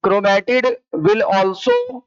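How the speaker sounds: drawn-out, very slow delivery; slow dictation. Real, not acted. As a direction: dictate word by word for note-taking. Dictating a note to students.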